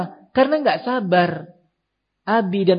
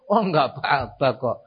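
calm reassurance; 2 semitones lower than usual. Acted. Father looking at child's hurt, calmly reassuring. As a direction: play it down gently. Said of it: "Coba si abi dan ummi tenang".

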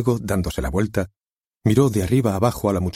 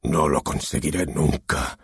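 despairing; 4 semitones lower, slower than usual. Acted. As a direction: sink into despair. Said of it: "estertor de desesperación".

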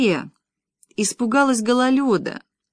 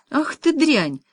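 shouted with feeling; 5 semitones higher, slower than usual. A narrator's reading. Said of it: "с чувством выкрикнул мужик".

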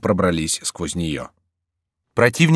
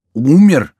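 much higher, much louder shocked cry; 8 semitones higher, 11 dB louder than usual. A narrator's reading. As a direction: shout it in disbelief. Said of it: "вскричали миньоны".

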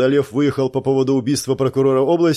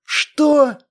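sharp high bark, held down in volume; restrained roar; 13 semitones higher, 3 dB louder than usual. Acted. Gurov bursts out at the news, a muffled roar. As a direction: roar at him but keep it hushed so the guards don't come. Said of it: "взревел Гуров, но не очень громко".

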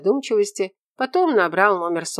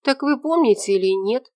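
put-on higher, louder girl's voice, stamping impatience; impatient young woman; 8 semitones higher, 5 dB louder than usual. A narrator's reading. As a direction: demand an answer now. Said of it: "Элла топнула ногой".

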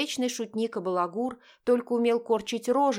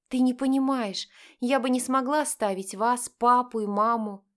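pleading; 4 semitones higher, 4 dB louder than usual. Acted. Sister pleads with brother.

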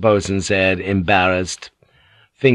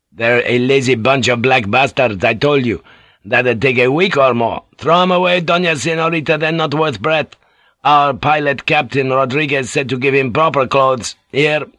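a lightly voiced rough sailor, grumbling; coarse boatswain; 4 semitones higher, 4 dB louder than usual. Boatswain muttering over the sick pilot, lightly voiced rough sailor. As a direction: grumble it like a crude old seaman.

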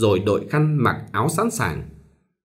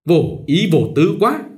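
snide remark; 5 semitones higher than usual. A narrator's reading. A young woman sneering at the bride, higher and snide. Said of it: "nói giọng mát mẻ".

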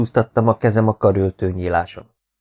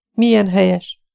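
admiring; 11 semitones higher than usual. A narrator's reading. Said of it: "mondta elismerően".

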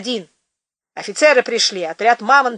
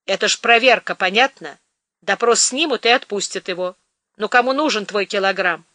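sympathetic. Acted. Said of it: "участливо положил ей на плечо руку".

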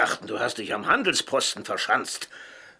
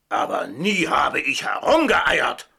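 angry denial; 2 semitones higher, 5 dB louder, slower than usual. Acted.

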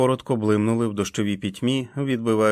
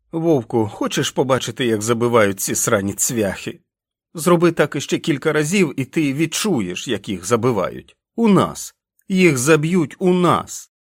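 louder, higher, raging at the wolf; furious yelling; 4 semitones higher, 4 dB louder than usual. Acted. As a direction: lash out, building to a shout. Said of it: "від його гніву". (лютий крик, що наростає)

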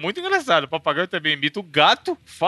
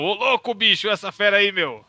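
Faustão impression; 3 semitones higher than usual. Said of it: "o papagaio vai imitar o Faustão".

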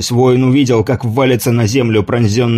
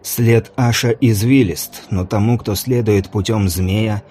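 solemn priest-mage. Acted. Mage's slow sermon. (медленно и торжественно, как жрец)

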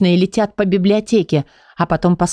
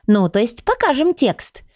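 "покажем текст" set out slowly and high; stressed correction; 6 semitones higher than usual. A narrator's reading. Leonila corrects her slip, "покажем текст" emphasized. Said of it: "выделив нужные слова".

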